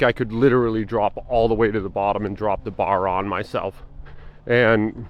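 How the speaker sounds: talking while chewing gum; words round a piece of gum. Real, not acted. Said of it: "sorry, I got a piece of gum in my mouth".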